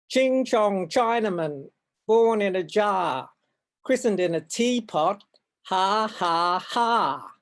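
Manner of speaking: a hint of a jeering kid with a fake laugh; mock playground taunt. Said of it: "one of the kids at school called me".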